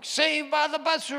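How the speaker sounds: high, loud and drawn out with relief; relieved exclaim. Retold or imitated. Preacher telling the church he was saved by the buzzer, relieved and loud. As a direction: sing it out like a last-second rescue.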